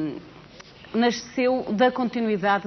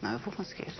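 determined reply; 10 dB quieter, faster than usual. Retold or imitated.

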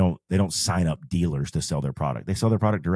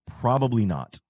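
PROBABLY higher and drawn out, then "not" falling; stress on probably; 5 semitones higher than usual. Real, not acted. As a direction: lean hard on the word "probably". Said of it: "emphasis on the probably".

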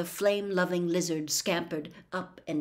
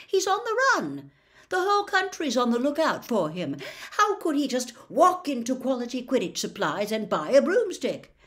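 higher, louder, laughing disbelief; incredulous scoff; 6 semitones higher, 4 dB louder than usual. Acted. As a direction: laugh off the whole notion. Wood scoffs at the idea.

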